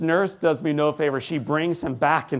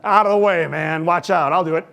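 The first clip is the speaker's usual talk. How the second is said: mock tough guy; 3 semitones higher, 6 dB louder than usual. Mocking a do-it-alone braggart.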